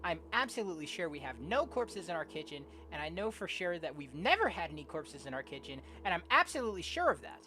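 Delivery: lightly acted, animated self-reassurance; insistent story narrator. Plays story's nervously insistent narrator.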